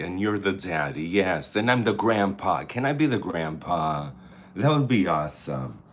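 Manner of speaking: loud, fast chatter about being grandpa; excited. Real, not acted. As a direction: gush about the role-play. Excited role-play with viewers.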